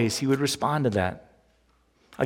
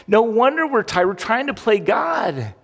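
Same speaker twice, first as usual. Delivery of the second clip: preaching exclamation; 6 semitones higher than usual. Real, not acted. Preaching climax.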